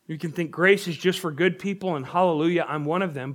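smug, pleased with yourself; self-satisfied. Shown as a demonstration. Preacher voicing a self-righteous churchgoer, smug. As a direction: say it like a proud insider. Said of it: "it's more like this".

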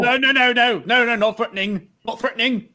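mildly panicked appeasement; hasty backpedaling. Acted. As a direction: rush to reassure armed soldiers. Hastily calming armed soldiers.

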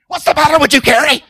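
loud teasing rebuke, half-joking; mock scolding call-out. Preacher teasing Carrie from the pulpit, loud mock rebuke. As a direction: bellow it at her like a fed-up elder.

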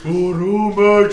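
loud, exaggerated Brummie accent; Peaky Blinders Brummie. Parodying the gangster show for a friend, hammed-up Brummie accent. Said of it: "That's a fucking Peaky Blinders Brummie accent".

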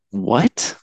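high, disbelieving question with a laugh; incredulous. Retold or imitated. Retelling the rescuer's confusion, high and disbelieving. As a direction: laugh as you ask what was just said. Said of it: "he was like".

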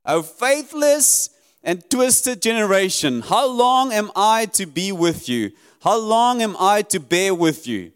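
exasperated teacher rebuking his friends; stern rebuke. Acted. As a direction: scold them like the real Jesus, not the sweet one. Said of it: "Sweet little kind Jesus".

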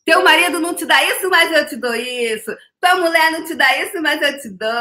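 high, teasing mock-seductive offer; mock seductive pitch. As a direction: tease like a playful temptress. Ofertas brincalhonas a marido/mulher. (oferta provocante de brincadeira, aguda)

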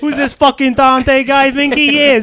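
high, loud indignant rant; mock angry rant. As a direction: rant about Dante like an offended jock. Riffing as Pitt.

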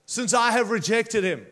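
God drawing out the question to Samuel. Acted. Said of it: "God said to Samuel".

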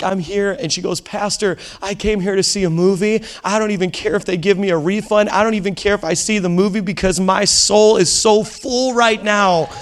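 earnest, emotional outpouring, lightly acted; imitated weeping. Woman to pastor after the service, tearfully moved. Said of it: "she's just weeping and weeping".

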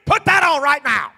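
high, loud, frantic repeated sirs; frantic shout. Retold or imitated. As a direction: yell at him to put the mask back on. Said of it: "the manager behind the desk goes".

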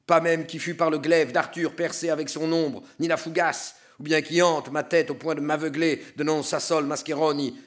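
anguished sinner trapped in ice; damned soul pleading. Acted. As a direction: speak as a frozen damned soul, urgent. Damned soul's long speech.

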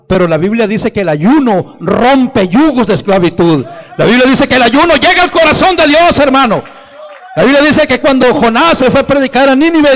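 loud, high preaching voice; preaching at full force. Acted. Preacher lifting his voice to the congregation, loud and high. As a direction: preach it hard to the church.

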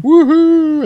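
high, loud whoop; mock cheer. Sailors celebrating on the deck, high loud whoop.

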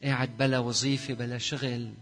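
earnest prayer over music, pleading. Real, not acted. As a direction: pray fervently for the people. Leads congregation prayer over music. (صلاة حارة متضرعة)

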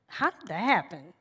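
low-key, careful question; trying to be sensitive. Retold or imitated. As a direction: imitate a husband asking gingerly. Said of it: "trying to be sensitive".

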